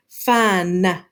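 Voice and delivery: "fun" stretched out with the final n released as an extra beat; over-pronounce "fun" so it almost sounds like two syllables; over-exaggerated. Shown as a demonstration. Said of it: "you over-exaggerate it, you can say".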